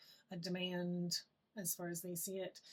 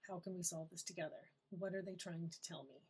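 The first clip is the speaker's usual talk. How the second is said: calm, curious inner voice; 5 dB quieter than usual. Shown as a demonstration. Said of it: "and you're like".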